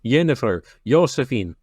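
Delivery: "Jennifer" and "Josephine" said with a Y sound, as Yennifer and Yosephine; grandpa's Swedish J. Retold or imitated. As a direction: copy the grandpa, turning each J into a Y. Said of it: "When Grandpa can't say a J".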